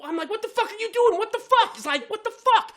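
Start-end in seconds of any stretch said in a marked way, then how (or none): 0.3-1.8 high, loud retold outburst; angry cussing. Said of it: "I start cussing". 2.1-2.7 high-pitched, loud exclamation of outrage; angry cussing. Retold or imitated. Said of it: "I start cussing".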